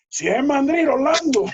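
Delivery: high-pitched imitation of a coach; exclamación imitada. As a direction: call out in mock recognition to a teammate. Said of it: "Dice así". (exclamación aguda, imitando al coach)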